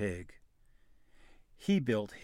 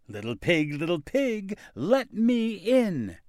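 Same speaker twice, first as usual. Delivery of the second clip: wolf voice; 6 semitones higher than usual. A narrator's reading. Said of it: "he cried".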